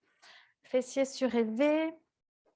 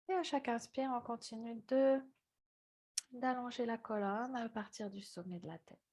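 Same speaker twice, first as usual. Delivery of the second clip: calm, unhurried instruction with long pauses; guided yoga meditation; 3 semitones lower, 8 dB quieter than usual. Real, not acted. Yoga teacher guiding students into breathing, calm meditative voice. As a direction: ease them gently into the breath.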